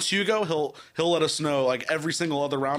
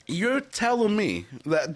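bad English accent; 3 semitones higher, slower than usual. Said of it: "it's so bad".

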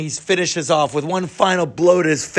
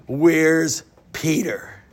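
slow menacing growl; much slower than usual. Acted. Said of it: "angry, muscular man and says".

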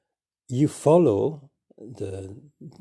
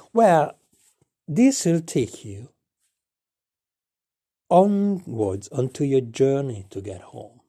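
Sharky's voice; 4 semitones higher, 4 dB louder, slower than usual. Acted. Sharky answers the lost traveller.

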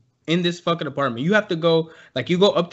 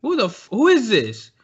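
calling out; 6 semitones higher than usual. Retold or imitated. Calling through door at night.

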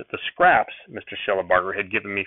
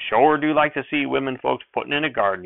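folksy shout; 4 semitones higher than usual. Acted. Sheriff praises women gardening in a hearty shout. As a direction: boom it out cheerfully like a country sheriff. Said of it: "he shouted".

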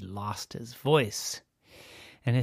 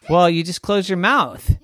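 high, loud mock-enthusiastic dad; teasing daddy; 9 semitones higher, 12 dB louder than usual. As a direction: oversell the idea playfully. Daddy voiced.

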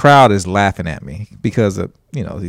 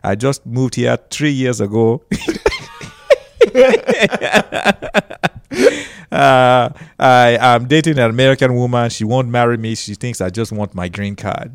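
a light Nigerian accent on stage. Shown as a demonstration. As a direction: slip into a mild Nigerian accent for the act. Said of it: "I would start talking just like this".

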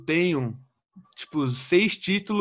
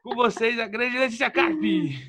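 grand entrance announcement; 5 semitones higher, slower than usual. Acted. Host introduces the guest.

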